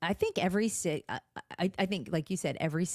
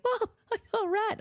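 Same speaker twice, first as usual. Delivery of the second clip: very high mock-panicked squeal; hammed-up high-pitched fright; imitated freaking out. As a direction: report the horror like a panicked daughter. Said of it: "freaking out".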